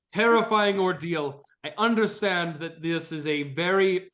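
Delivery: formal, pained dragon companion; strained and pleading, in earnest; Rod the dragon. Acted.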